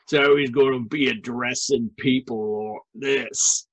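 thick northern British accent, lightly done; a taste of a brutish northern British bully. Shown as a demonstration. Dwarf Gunter talking down to people, light northern British accent. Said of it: "thick, northern British bully accent".

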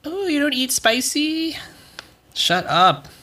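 high, sneering mock voice; mocking macho hot sauce guy. Mocking macho hot sauce people, high sneering voice. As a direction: sneer it like a smug spice bro. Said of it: "people that are like".

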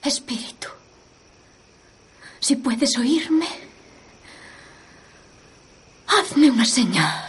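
whispered, slow trance plea; seance medium. Acted. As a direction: hush and beckon the spirit. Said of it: "intentaré alcanzar un estado de trance".

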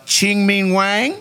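mock Asian accent, high and drawn out; put-on Asian accent. Reading out a baseball card name, put-on Asian accent. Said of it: "you said it with an accent".

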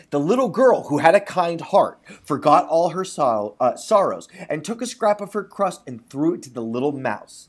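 measured storybook reading; lightly performed storyteller; story narration. A narrator's reading. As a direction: read it like a folk tale aloud. Reads a folk tale.

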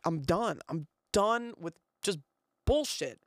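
pissed off. Retold or imitated. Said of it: "I'm pissed at myself".

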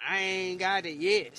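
mocking quote. Imitating people who boast about dodging karma, mocking. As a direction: quote the boasters with some force. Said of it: "people come up to you and say".

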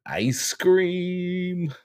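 high silly voice. Acted. Punchline answer to joke.

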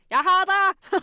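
high, loud proud parent; bright playful "I've got you"; cheery parent catch. Retold or imitated. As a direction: call it out like a parent catching a jumping child. Parents catching child, acted.

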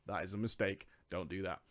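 quiet earnest caution; quiet warning. Real, not acted. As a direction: drop the voice to a low warning. Advice to beta players.

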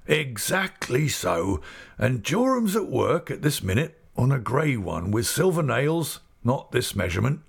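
put-on old man delighted by a sudden memory; old Mister Omer.

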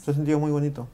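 talking with mouth full. Real, not acted. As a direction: speak through a mouthful of bread. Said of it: "Estoy hablando con la boca llena".

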